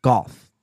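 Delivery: "Golf" said slowly and carefully; pronunciation demo. Shown as a demonstration. Correcting self for chat, "Golf" said deliberately. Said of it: "the way you pronounce golf".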